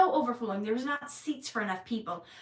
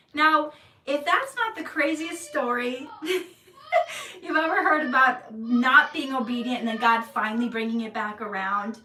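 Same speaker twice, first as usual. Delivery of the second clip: half laughing, half crying, louder; laughing through tears; 5 dB louder than usual. Real, not acted. Telling the audience the story, laughing through tears. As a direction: laugh while choking up.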